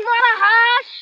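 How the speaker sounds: "মরা হাঁস" said in place of "মহারাজ"; "মরা হাঁস" blurted for "মহারাজ"; mispronounced title. Acted. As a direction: garble "মহারাজ" into "মরা হাঁস", mouth full. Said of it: "আমি তোমাকে কতবার বলছি, মরা হাঁস নয়".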